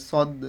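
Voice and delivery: "সদ" with the final d released in a short bounce; "সদ" ending in a bounced d; echoed qalqalah. Shown as a demonstration. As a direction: echo the d at the end of "সদ". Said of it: "মানে ইকো করে পড়তে হবে".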